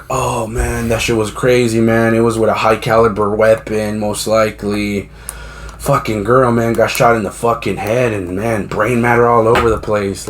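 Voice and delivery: low-key, unfazed retelling; imitated nonchalance. Livestreamer describing a shooting to viewers, mock nonchalance. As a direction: recount horror as if used to it. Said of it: "like, if he's used to seeing brains".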